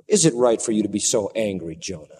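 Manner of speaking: low, soft, patient question; gentle rebuke. Acted. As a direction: tenderly correct Jonah. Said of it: "A gentle rebuke".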